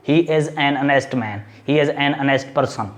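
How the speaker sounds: very slow, word by word, for students; slow demo reading. Shown as a demonstration. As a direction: read it out slowly so the class can follow. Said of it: "तो इससे पहले भी क्या आएगा?".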